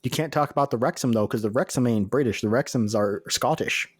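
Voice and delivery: badly faked British accent; mock British accent. Co-host correcting British geography wrongly, in mock British accent. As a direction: bungle a British accent for comedy. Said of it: "two guys with accents just like ours".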